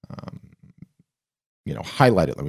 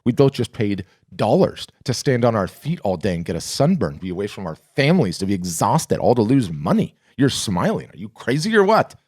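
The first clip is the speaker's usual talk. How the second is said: incredulous Tim; 3 semitones higher than usual. Retold or imitated. Tired friend at the bar, incredulous at the smile. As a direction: ask like he can't believe the grin. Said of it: "He looks at me incredulously".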